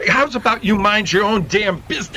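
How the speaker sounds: angry shout. Acted. Thug confronts the rescuer.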